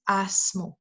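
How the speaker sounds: "asmu" with a broad, open first vowel. Shown as a demonstration. Lecturer explaining Latvian vowels, broad first vowel in "asmu". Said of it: "broad pronunciation".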